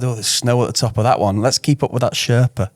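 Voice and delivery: put-on mild Northern English accent. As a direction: chat to yourself in a light Northern accent. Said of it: "Don't know why I did it in a northern accent".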